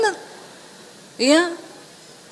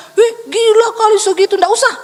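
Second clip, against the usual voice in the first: louder and higher, mock shock; mock shocked husband; 6 semitones higher, 4 dB louder than usual. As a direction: play the husband balking. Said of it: "berharap suami saya bilang". (suami kaget pura-pura)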